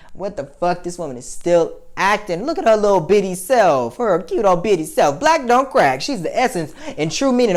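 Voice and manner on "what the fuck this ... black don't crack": high, gushing disbelief building louder; retold excited marvelling; amazed delight. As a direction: gush over her, rising to a cry. Acts out amazed delight seeing actress.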